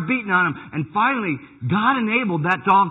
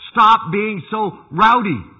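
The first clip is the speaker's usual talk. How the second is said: Jesus rebuking water; 5 semitones higher, 10 dB louder, much slower than usual. Acted. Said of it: "he says to the water".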